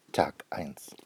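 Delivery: breathy hush, just a secret; whisper. A narrator's reading. Narrator opening the first day's chapter, whispered. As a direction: whisper the chapter heading softly.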